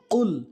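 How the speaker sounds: "কুল" begun with q from the middle of the throat; throaty qaf. Shown as a demonstration. Teacher showing where the letter is made, throaty q. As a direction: say "কুল" from back in the throat, not with k. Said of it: "গলার মাঝখান থেকে উচ্চারণ হবে".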